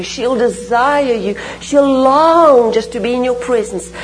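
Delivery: impassioned, swelling plea to God; fervent prayer. Real, not acted. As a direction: pray it fervently, leaning on the key words.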